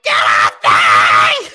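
low, loud, slow mock shout; mock yell. Imitating Sable yelling at security, loud and low. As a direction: growl it like a wrestler shoved off. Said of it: "Sable's like".

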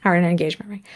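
hushed, breathy aside; retold whisper. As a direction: whisper it like a hint. Retold hint to boyfriend, whispered.

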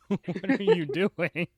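high-pitched incredulous teasing; exasperated disbelief. Real, not acted. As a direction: scold a friend in amused disbelief. Teasing friend for wasting money.

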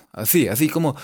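"Así" as "athí"; tongue on the teeth, blowing through the s in "Así"; lisping. Shown as a demonstration. Teacher imitating a cartoon cat, lisped "Así". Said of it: "hablaba así como si fuera lengua y sopita".

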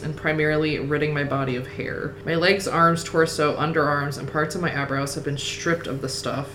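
steady list-like audiobook reading, easing down at the end; story narration. A narrator's reading. Reader narrating the makeover to her co-host, story narration. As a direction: read the long prose sentences evenly. Reads the novel aloud.

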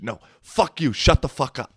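high, loud imitation of her; retold angry shout-down. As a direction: shout them down, mimicking her. Retold woman shouting men down.

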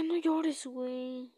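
half-hearted angry scolding; mock yell. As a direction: snap it at the crying kid like an angry father. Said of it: "y así como feo, como gritando".

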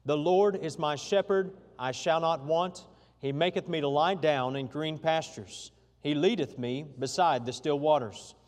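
congregation reading aloud together; many voices in unison. Real, not acted. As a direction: read it in unison with the church. Let's read it aloud together.

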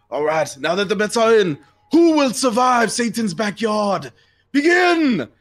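high, loud announcer voice of a devil toad. Acted. GM as the Devil Toad, announcing to the arena crowd. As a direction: call out the bets like a ringmaster.

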